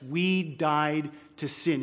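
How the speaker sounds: slow, weighty "We died to sin"; emphatic statement. Shown as a demonstration. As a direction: space out "We died" and "to sin" deliberately. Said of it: "That is what Paul says emphatically".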